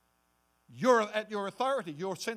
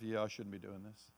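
much lower and softer, faltering to almost nothing; self-doubting; 10 semitones lower, 15 dB quieter, faster than usual. Pretend. Believer muttering to themselves after the devil's accusations. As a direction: talk yourself down into defeat. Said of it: "you're saying to yourself".

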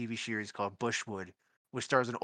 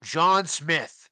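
mock Austrian accent, loud and very drawn out; Arnold Schwarzenegger; 4 semitones higher, 6 dB louder than usual. Mocking eighties action heroes, imitation Austrian accent. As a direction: stretch the name out in a slight Austrian accent. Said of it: "sounds like Arnold Schwarzenegger".

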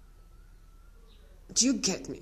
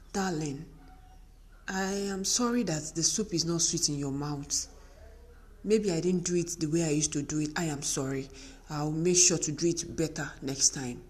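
gentle, sorry tone to husband; soft apology. Shown as a demonstration. Wife apologizing to husband about the soup, gentle and sorry. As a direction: apologize sweetly. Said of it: "Tell your oga".

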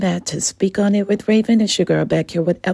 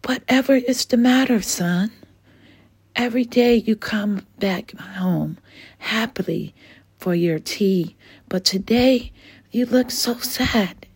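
lightly voiced mother, a bit higher, caring; concerned Mama Dragon; 5 semitones higher than usual. Mama Dragon asking sad Dylan what the matter is, caring. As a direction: ask your sad son gently what's wrong.

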